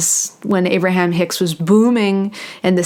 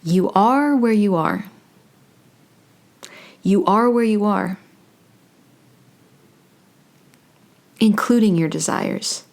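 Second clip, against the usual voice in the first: measured delivery with long pauses; channeled spiritual message. Acted. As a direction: speak as if receiving each phrase, unhurried.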